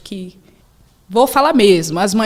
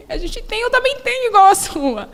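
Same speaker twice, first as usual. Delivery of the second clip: daughter's voice; 13 semitones higher, 4 dB louder than usual. Retold or imitated.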